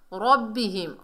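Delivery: रब्बिहिम with a thick "ro"; heavy ra. Shown as a demonstration. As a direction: round the r in रब्बिहिम. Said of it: "रा को मोटा पढ़ेंगे".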